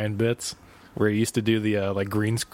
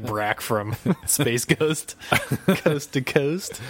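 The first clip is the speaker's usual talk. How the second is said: laughing; 4 semitones higher, much slower than usual. Real, not acted. Laughing through the name.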